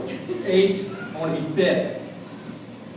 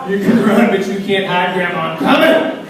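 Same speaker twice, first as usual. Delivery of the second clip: loud playful threat, louder at the end; mock menacing taunt; 5 dB louder than usual. Hearse driver chasing Grandma, loud mock threat. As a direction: call out like a comic pursuer.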